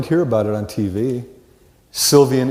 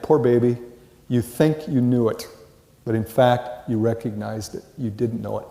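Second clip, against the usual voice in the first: inner pity; 6 dB quieter than usual. Retold or imitated. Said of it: "I shake my head and think".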